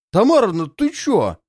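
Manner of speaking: high, loud panicked shout; panicked yelling. A narrator's reading. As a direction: yell in alarm. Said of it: "орут пьяницы в панике".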